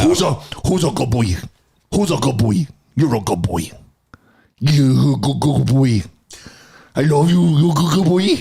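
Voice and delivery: praising a dog, doggy talk. Pretend. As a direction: coo at a good boy. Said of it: "Do it on the way out".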